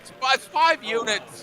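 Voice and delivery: loud, high, joking protest. Real, not acted. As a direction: shout the correction, laughing. Joking protest over bet units.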